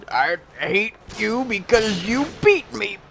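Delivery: high, slow whining parody; mock rager. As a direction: whine it like a sore loser. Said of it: "they're, they're ragers".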